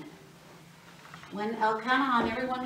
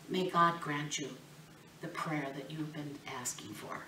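softer, fading into a whisper; hushed blessing; 5 semitones lower, 9 dB quieter than usual. Retold or imitated. Priest Eli sending Hannah home with a blessing, whispered. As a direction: bless her gently, almost under your breath.

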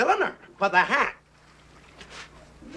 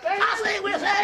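joyful shout; 10 semitones higher than usual. Acted. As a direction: shout it out in glee. Cat shouting joy.

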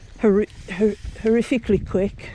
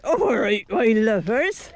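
put-on West Country accent; 4 semitones lower than usual. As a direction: linger on 'my lovers' West Country style. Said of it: "I'm doing that".

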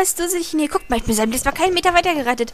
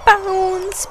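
commanding bounce; 8 semitones higher, 5 dB louder than usual. Real, not acted. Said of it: "Bounce hab ich gesagt".

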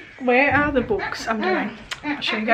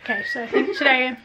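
talking with a mouthful; words round a bite of food; chewing while talking. Real, not acted. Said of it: "sorry, we're chewing my mouth".

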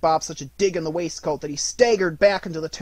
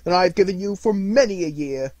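put-on louder, jovial old man; hearty and jolly; 3 semitones higher, 9 dB louder than usual. A narrator's reading. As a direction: beam with generosity. Scrooge joyfully generous.

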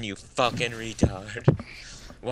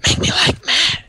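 shouted; 7 dB louder, slower than usual. Pretend. Quoting movie line, shouting it.

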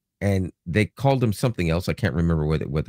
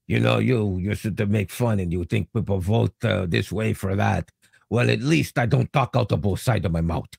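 light French Canadian accent impression; mild French Canadian accent; 3 semitones higher than usual. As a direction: quote the prime minister in a French Canadian accent. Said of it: "he talks like this a little bit".

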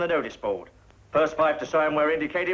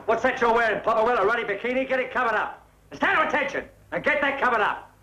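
barking orders; 6 semitones higher than usual. Acted. Officer barking at soldiers.

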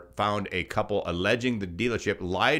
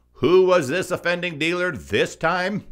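high, rising eager question; high-pitched eager asking; excited question; 10 semitones higher, 5 dB louder than usual. Real, not acted. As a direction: ask it with a showman's eagerness. Host asking with mock excitement.

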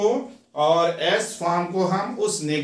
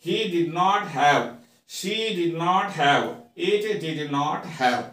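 slow, clear model sentence; slow drill reading; much slower than usual. Shown as a demonstration. Teacher slowly models the negative sentence for students. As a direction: read it out slowly for the class. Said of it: "यहाँ पर sentences देखिए".

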